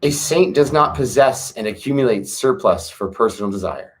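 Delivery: put-on calm, measured recitation of an old text; scripture reading. Reading the Tao Te Ching aloud to viewers, calm measured recitation.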